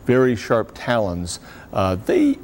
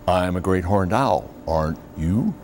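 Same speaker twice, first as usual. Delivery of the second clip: great horned owl call; 2 semitones lower than usual. Retold or imitated. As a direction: hoot the words in the great horned owl's rhythm. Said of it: "the large great horned owl says".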